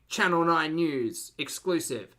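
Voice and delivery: slow, drawn-out news promo voice; measured mock announcer. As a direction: mimic a Channel Nine exclusive teaser. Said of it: "it is giving very much".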